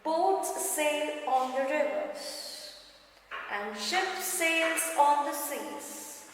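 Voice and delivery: slow, measured poem reading; slow sing-song poem recital; poem recitation. Shown as a demonstration. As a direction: recite each line slowly for the class. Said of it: "now moving on to the textbook part".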